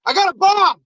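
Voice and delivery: high-pitched frantic yell; mock threat. Mailman surrounded by cops, high mock threatening. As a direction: imitate a desperate bluffer.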